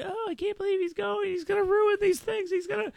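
high mocking impression of people griping about him; mocking whiny complainers. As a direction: squeak it out like a scandalized critic. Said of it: "All these people are complaining".

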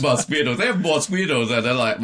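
giggling through the words; amused laugh, pitch jumping up. Real, not acted. Guest laughs at his mosquito story.

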